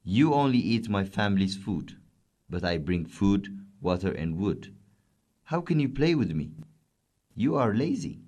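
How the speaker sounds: lightly voiced camel telling off the cat; mildly angry camel. Camel scolds the cat for being lazy, mild angry tone. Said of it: "said the camel angrily".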